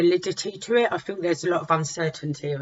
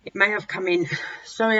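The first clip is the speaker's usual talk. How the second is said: breathless from a cold; running short of breath mid-sentence; 3 semitones higher than usual. Real, not acted. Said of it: "I keep getting short breath".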